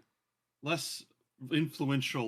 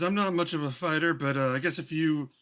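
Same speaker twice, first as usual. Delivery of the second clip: Bulbug's mother; 2 semitones higher, 4 dB louder than usual. Acted. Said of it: "she says".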